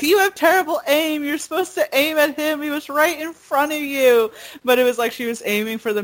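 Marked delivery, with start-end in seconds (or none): 0.0-4.3 higher, scolding little dragon; a hint of a scolding Mushu; Mushu mocking. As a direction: nag her like a sassy sidekick. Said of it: "Mushu's like".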